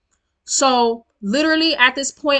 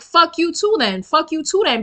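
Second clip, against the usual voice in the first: mock yell, pitched up; retold yelling; 6 semitones higher than usual. Retells cursing back at him, high mock yell. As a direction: imitate your own yelling without full volume, higher voice. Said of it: "And I start yelling it".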